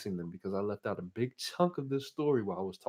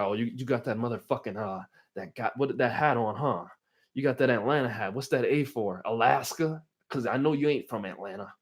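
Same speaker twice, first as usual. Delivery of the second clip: mocking; 4 dB louder than usual. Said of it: "He clowned my ass too".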